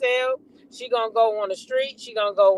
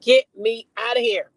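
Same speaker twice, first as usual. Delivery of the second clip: imitating panic. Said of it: "That girl said".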